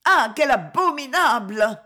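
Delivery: the words strangling in her throat; choked outcry. Acted. Varvara overwhelmed by the count's cruelty, choking. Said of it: "Les mots s'étranglèrent".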